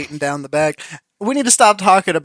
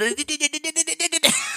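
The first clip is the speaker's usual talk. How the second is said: mock stutter; 10 semitones higher, 10 dB quieter than usual. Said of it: "like, the stutter".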